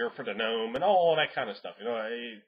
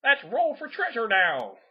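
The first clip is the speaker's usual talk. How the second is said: lazy GM; 11 semitones higher, 6 dB louder, slower than usual. Retold or imitated. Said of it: "worst things you do as a game master".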